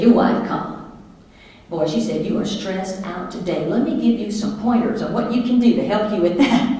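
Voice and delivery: light Southern twang; folksy phone advice with a hint of Southern twang. Made-up caller giving stressed husband pointers, light Southern twang. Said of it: "kick in that Southern twang".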